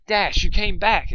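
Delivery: slow, loud, high joyful cry; happy exclaim, retake. A narrator's reading. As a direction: welcome her back gladly. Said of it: "exclaimed Dusk with happiness".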